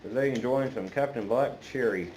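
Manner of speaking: talking around a pipe stem; pipe in mouth. Real, not acted. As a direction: speak with a pipe clenched in teeth. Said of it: "Let me get my pipe lit".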